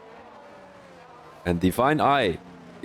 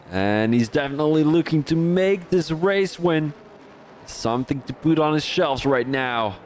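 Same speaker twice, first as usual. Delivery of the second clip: American-accented commentator, lightly put on; 2 semitones higher than usual. Shown as a demonstration. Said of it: "guess which accent I'm trying to be".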